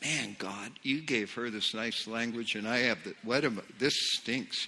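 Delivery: low, soft mock grumble; imitated hurt feelings, lightly sulky; self-pitying. New believer complaining to God about his language, soft self-pitying grumble. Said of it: "Self-pity just attacked me".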